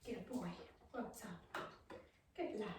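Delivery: quiet, gentle praise for the dog; soft dog praise. Shown as a demonstration. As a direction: praise the dog softly, almost under your breath. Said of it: "so we're just gonna go".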